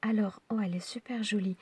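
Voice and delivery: soft whisper, marveling at the card. Real, not acted. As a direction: breathe it out in a hushed whisper. (chuchoté, émerveillé)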